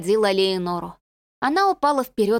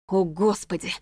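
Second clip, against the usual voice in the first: a shocked gasp, a touch breathless; stunned gasp at the sight. A narrator's reading. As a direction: gasp it out in horror. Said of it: "ахнул Людовик".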